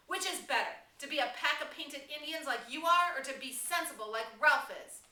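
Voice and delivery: high, loud scolding appeal; loud lecturing. Acted. Piggy lecturing the painted tribe, loud. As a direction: reason with them loudly.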